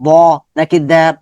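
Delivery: slow, separated letter sounds "ব" and "দ্যা"; careful articulation. Shown as a demonstration. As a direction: sound out "ব" and "দ্যা" as a teacher would. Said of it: "focus রাখবো উচ্চারণের".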